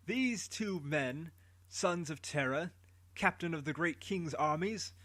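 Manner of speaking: very slow, weighty accusation; slow herald's charge. Acted. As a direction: lay out the charge deliberately.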